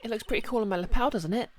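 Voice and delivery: put-on high, excited girl voice; bubbly girl thrilled with her badge; eager young girl.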